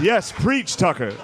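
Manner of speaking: mock churchgoer cheering on the preacher; black-church congregant. Dad answering the TV like church, fervent. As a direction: respond as if moved by a sermon. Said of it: "Fox News is basically black church".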